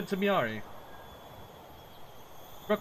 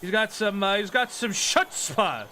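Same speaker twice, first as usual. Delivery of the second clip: amused excitement; 6 semitones higher than usual. Real, not acted. Amused reaction to character.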